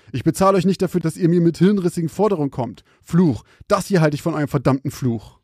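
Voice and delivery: mustache twirling villain. Acted. Boss rants at workers.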